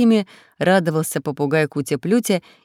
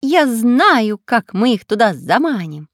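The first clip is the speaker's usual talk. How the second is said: high, loud parrot cry; shouting parrot; 5 semitones higher, 6 dB louder, slower than usual. Acted. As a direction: squawk it out eagerly. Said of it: "закричал попугай".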